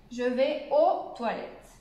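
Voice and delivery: measured, slow model sentence; slow recap example. Shown as a demonstration. Teacher recaps the contractions for beginners, slowly. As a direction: recite it slowly for learners.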